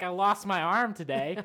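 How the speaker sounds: loud, laughing hypothetical wail; mock it through laughter; laughing mock complaint. Mocking the partner's fuss, laughing loudly. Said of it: "it's like".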